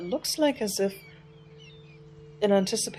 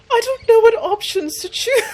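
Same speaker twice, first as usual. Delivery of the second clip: laughing helplessly; 10 dB louder than usual. Real, not acted. Embarrassed laughing at game choices.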